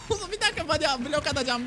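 very high, frantic plea to wait; high-pitched scramble; urgent high yelp. Real, not acted. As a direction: beg a teammate to hold on, voice shooting up. Panicked call to teammate mid-chase.

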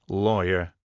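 mildly triumphant guess; a touch of self-satisfaction. Acted. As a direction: announce it like the winning answer. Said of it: "said Vince triumphantly".

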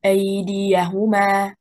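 "أيديهما" with stress on the first and third beats; straight performance. Shown as a demonstration. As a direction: say "أيديهما" evenly, the correct way. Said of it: "The straight performance".

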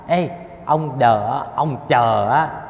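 slow, loud call to get attention; Buddha calling out. Acted. Buddha answering the grieving disciple, slow loud call. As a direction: call out slowly so he stops and listens. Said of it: "Phật nói".

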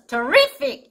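terrific with the weight on RIF; second-syllable stress. Shown as a demonstration. Teacher explaining where the accent falls, terrific stressed on "RIF". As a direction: hit the middle syllable in terrific. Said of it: "리의 강세가 있어서".

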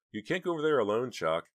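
high, loud, fast objection; urgent protest. A narrator's reading. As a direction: protest anxiously in a rush. Dina frightened, objects to Chuck going.

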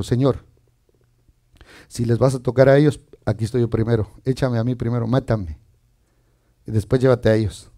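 low, hushed humble plea; Moisés. Retold or imitated. The shepherd asks God to take him first, low humble plea. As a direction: offer yourself softly and gravely, voice dropped low.

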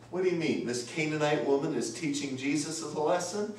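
incredulous question bursting into a loud, high protest; mock outrage, rising in pitch and volume; indignant objection. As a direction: play a scandalised believer objecting, building to a shout. Acting out a scandalised believer's objection.

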